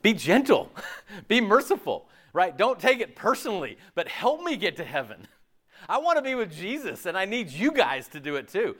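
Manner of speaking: high, loud, earnest pleading with laughs; impassioned plea. Real, not acted. Preacher pleading with the church to help, high and impassioned. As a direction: beg them warmly to name your sin.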